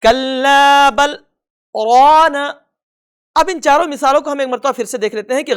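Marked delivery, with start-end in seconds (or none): 0.0-2.4 brief breathless stop after بَلْ, then رَانَ; pause without breath. Shown as a demonstration. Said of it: "کس طرح سے پڑھیں گے؟".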